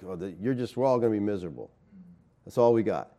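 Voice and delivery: low, soft, mildly gloomy imitation; mock depressed. Preacher imitating the podcast's depressing message, mock depressed. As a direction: drop to a quiet, resigned mock gloom. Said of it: "it was depressing".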